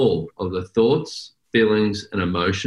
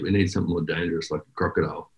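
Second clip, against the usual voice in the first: low conspiratorial joke; 3 semitones lower, 6 dB quieter, faster than usual. Real, not acted. Joking about a crocodile logo.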